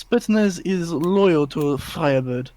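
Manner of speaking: put-on slow, hammy Russian accent; a clumsy Russian accent, drawn out; bad Russian accent. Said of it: "I did a horrible Russian accent".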